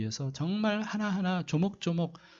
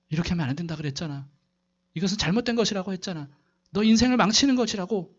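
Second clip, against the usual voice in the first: scolding father; 2 semitones higher, faster than usual. Retold or imitated. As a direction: rattle off a father's rebuke, then snap. 아빠가 아들을 야단침. (아들을 꾸짖는 아빠, 빠르게 몰아치는 꾸중)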